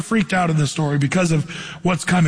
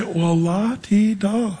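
slow, drawn-out mock dismissal; sing-song brush-off, slowly; much slower than usual. Young guy brushing off the verse, mocking. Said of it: "I'd say".

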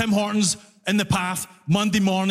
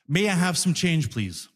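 very polite; 4 semitones lower than usual. Retold or imitated. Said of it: "Very politely".

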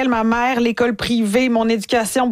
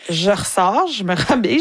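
ordinary delivery

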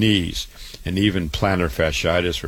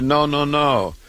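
imitating a patient's higher-pitched protest; mock-insistent refusal, pitched up; retold refusal; 8 semitones higher, slower than usual. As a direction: wave it off in a raised, mimicking voice.

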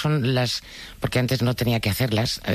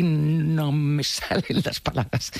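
slow, halting, words getting stuck; demonstrated stuttering block; 3 semitones higher, much slower than usual. Shown as a demonstration. Actress showing how she blocks in long interviews, halting stutter. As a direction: struggle to get each word out, half laughing. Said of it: "empiezo a tartamudear".

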